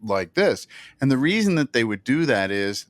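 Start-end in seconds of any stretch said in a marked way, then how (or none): 0.0-0.7 slow, metered anchor delivery; David Brinkley cadence. Shown as a demonstration. Showing how David Brinkley talked, slow anchor imitation. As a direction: space the words out like a newsman reading ahead. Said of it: "there was David Brinkley".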